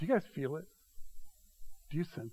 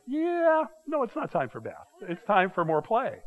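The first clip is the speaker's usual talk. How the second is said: grandson protest; 6 semitones higher than usual. Retold or imitated. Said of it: "And he's like".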